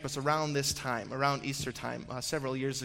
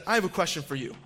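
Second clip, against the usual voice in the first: imitated tone; 3 semitones higher, faster than usual. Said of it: "like that".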